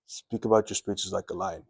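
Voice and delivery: no lift on any word through "like a line"; level monotone line. Shown as a demonstration. Coach showing viewers speech as a line, monotone. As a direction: keep "Speak about your speeches like a line" soft and even. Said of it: "but nothing goes down".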